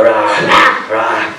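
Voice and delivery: little "rah" growl for a monster's head; mock scary roar. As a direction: pretend to be a scary head end. Imitating the scary head end.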